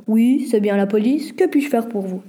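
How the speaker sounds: policier posé, léger ralenti; voix grave de policier. A narrator's reading. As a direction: jouer un agent au téléphone, calme. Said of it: "une voix grave répondit". (un policier répond au téléphone d'une voix posée)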